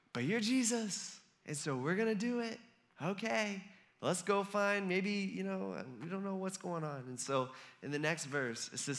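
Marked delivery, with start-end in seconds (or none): 0.1-7.0 softer, hesitant going-along; acted uneasy compliance; reluctant agreement. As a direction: give in doubtfully, imitating uneasy followers. Disciples reluctantly agree to obey.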